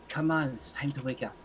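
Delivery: put-on Irish-accented wake-up call; lightly Irish, coaxing someone awake. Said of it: "it's Irish because I'm" the speaker.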